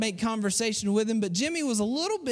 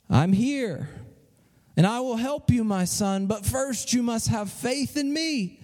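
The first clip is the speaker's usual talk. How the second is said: measured, solemn voice of God, lightly voiced; a hint of a heavenly voice, deliberate pauses; voice from above. Heavenly voice answers the climber.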